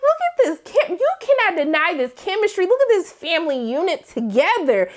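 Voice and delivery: high, swooning over the family; excited gushing. Retold or imitated. Fan swooning over the family together, high and excited. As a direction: gush at the screen. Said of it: "But I was just like".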